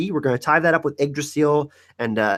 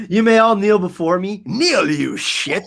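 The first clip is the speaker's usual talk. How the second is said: mock queen; 5 semitones higher, 4 dB louder, slower than usual. Mock royal addressing chat.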